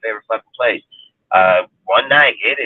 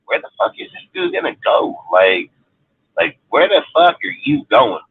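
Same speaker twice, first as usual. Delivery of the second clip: shocked disbelief; 2 semitones higher than usual. Retold or imitated. Telling a friend about a homeless cyclist, incredulous. Retelling his shocked thoughts.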